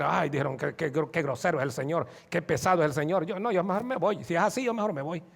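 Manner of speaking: low, soft muttering of offended followers; imitated sulky complaint, kept down; mock grumbling. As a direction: grumble under the breath as they walk off. Acting offended followers grumbling and leaving.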